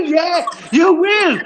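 high, scornful jeer at a threat; mocking retort. Real, not acted. Mocking a rival's threat in a heated online row, scornful jeer. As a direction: throw the threat back at him with a sneer.

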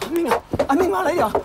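panicked calling. Acted. Mother calling unconscious son.

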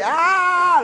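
sudden high, loud "Ah!" yell; retold yell. Hostess blocking the toilet door yells at him, high and loud. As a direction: yelp it out sharp and high, as she did. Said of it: "like that. She yelled".

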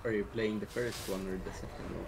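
put-on heavy Swedish accent. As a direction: lay on a thick Swedish accent. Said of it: "talk with a really heavy Swedish accent".

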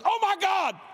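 high loud terrified cry; panicked cry. Retold or imitated. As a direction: blurt it in sheer panic. Atheist screams in panic.

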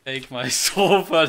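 laughing. Real, not acted. Laughing while quoting joke.

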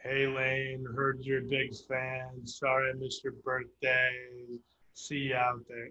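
mock a half-hearted birthday message; flat mock of a lazy shout-out video; unenthusiastic. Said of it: "the most unenthusiastic video I'd ever seen".

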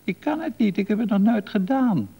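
protesting cry. A narrator's reading. Man refusing to take the wheel, crying out in protest. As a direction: cry out in high-pitched refusal. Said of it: "riep hij".

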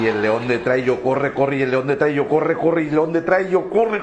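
repetitive chant climbing in pitch; building chase. Acted. Man flees a lion in the jungle, urgency building. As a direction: build the run step by step, pitch rising.

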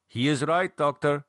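a hint of a devout older woman; earnest older woman's voice, lightly done; Anna, lightly voiced. Anna backing David against the doctor, lightly voiced. Anna's lines voiced by narrator.

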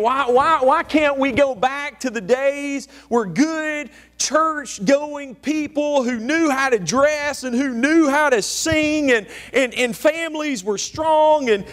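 hammed-up complaining churchgoer; mock whining. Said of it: "They were whining because".

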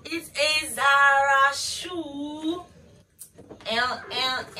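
stunned by the shoe in her hands; awed gasp. Real, not acted. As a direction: let the delight spill out slowly. Unboxing a dream shoe.

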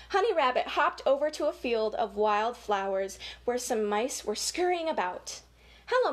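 lively storybook read-aloud; reading to children. Acted. Reading a rabbit story to children, lively storybook voice. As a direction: read it like story time for little kids.

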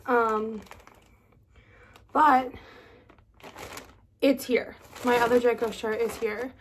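talking with a numb mouth; slightly slurred, numb-faced speech; numb face. Real, not acted. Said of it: "side of my face is numb".

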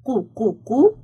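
"قو، قو، قو" as separate qoo beats; "قو" repeated as a sounded-out syllable; qaf with damma. Shown as a demonstration. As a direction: drill "قو" three times, evenly spaced. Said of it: "قاف ضمة".

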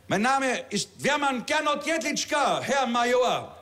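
höher und langsam, zackig gemeldet; laut und deutlich wie beim Appell; strammer Rekrut. Acted. Rekrut meldet sich stramm. (Rekrut meldet sich beim Major)

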